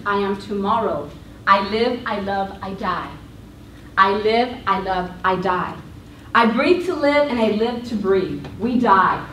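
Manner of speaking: measured spoken-word poem, each line set apart; poem recitation. Acted.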